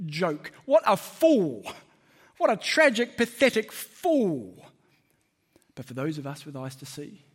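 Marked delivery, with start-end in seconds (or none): 0.6-4.6 slow, louder scornful jeer at a fool; mocking jeer. The preacher voices the ancient world jeering at Jesus on the cross, slow and scornful. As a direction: sneer it out like a mocking crowd.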